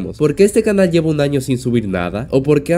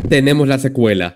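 louder, sudden burst of excitement; excited outburst; 2 semitones higher, 5 dB louder than usual. Real, not acted. Narrator thrilled to reveal the sequel, excited. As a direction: announce it loudly, carried away with excitement. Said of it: "es que me emociono mucho".

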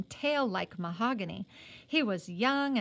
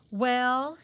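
a louder, belligerent "Well"; 3 semitones higher, 7 dB louder than usual. Acted. Muddy rider confronting Johnny, belligerent. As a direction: challenge him with one pushy word. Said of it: "he said to Johnny belligerently".

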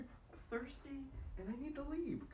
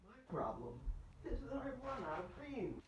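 loud stoned musing; stoner; 6 dB louder than usual. Real, not acted. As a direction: mull it over, baked. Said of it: "I'm high right now".

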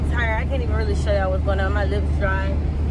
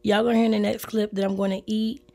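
hoarse and apologetic, quieter than usual; hoarse from laryngitis; 3 dB quieter than usual. Real, not acted. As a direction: talk through a raw, hoarse throat. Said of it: "my bad if I sound bad".

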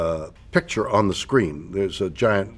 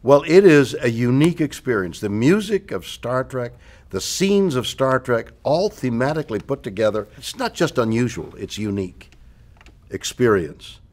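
host's promo sign-off. Acted. Host closing the interview with a live show plug, promo sign-off.

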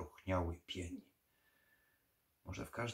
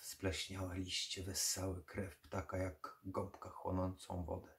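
ordinary delivery

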